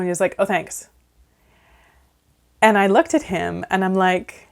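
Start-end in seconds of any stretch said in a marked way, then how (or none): 0.4-0.9 softer, flat "Oh, thanks." with no lift at all. Retold or imitated. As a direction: imitate a dull, unimpressed thank-you. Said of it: "It was a very flat tone".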